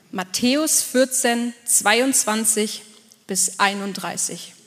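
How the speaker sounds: "Matthäus vierzehn, zweiundzwanzig" spelled out slowly, word by word; slow it right down so they can find the verse; slow dictation. Shown as a demonstration. Pastor telling the congregation which verse to open, slow dictation. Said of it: "schlag mal auf".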